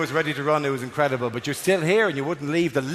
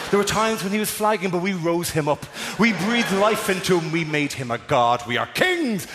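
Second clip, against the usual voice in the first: grandiose self-praise; 3 semitones higher than usual. Acted. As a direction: proclaim your own glory, building to the end. Voices self-congratulating audience, grandly.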